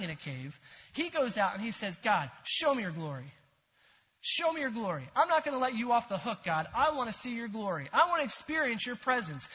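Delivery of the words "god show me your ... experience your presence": bold demand. Retold or imitated. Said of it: "he goes in with this boldness".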